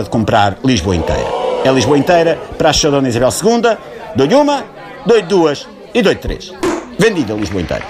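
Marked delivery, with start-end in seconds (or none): 4.1-7.8 dramatic auction call. Acted. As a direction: stretch out the final count like a showman. Auctioneer closing the big sale. (pregão de leiloeiro, agudo e arrastado)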